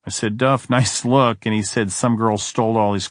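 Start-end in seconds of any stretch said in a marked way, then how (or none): 0.4-1.5 slow, with a laugh breaking in; laughing tease. Retold or imitated. To Duff in boxer shorts, laughing and teasing. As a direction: chuckle through the dig.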